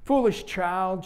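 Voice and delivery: gentle rebuke. Acted. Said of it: "she said gently".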